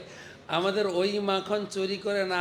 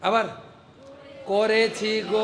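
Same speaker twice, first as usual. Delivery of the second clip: whining complaint; 3 semitones higher, 4 dB louder, slower than usual. Acted. Gopi complains to mother again.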